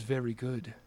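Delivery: soft, low whisper of a snake; hushed serpent waiter. Acted. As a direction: breathe it out like a serpent.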